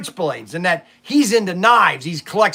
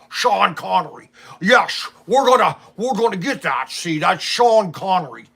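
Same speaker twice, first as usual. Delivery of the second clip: put-on movie-star impression, slurring into character; hammed-up actor impersonation; Sean Connery. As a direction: do a playful celebrity impression. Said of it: "you're Sean Connery".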